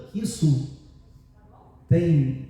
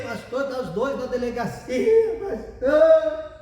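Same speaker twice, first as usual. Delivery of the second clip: wailing plea, stretched on the last words; mock tearful cry; imitated sobbing; 2 semitones higher, slower than usual. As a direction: play a weeping woman begging for help. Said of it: "Soluçando e chorando".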